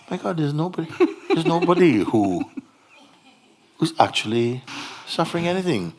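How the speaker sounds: high, laughing astonishment; amazed realization. Acted. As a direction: burst out with delighted wonder. Acting a student's amazed discovery.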